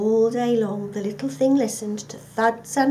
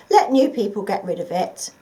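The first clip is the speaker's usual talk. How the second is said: dismissive mover; 6 dB louder than usual. Acted. Mover says leave it behind.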